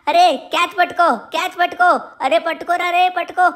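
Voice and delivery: excited call across the yard; calling out in play. Acted. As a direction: shout to a friend to catch. Playing catch outside.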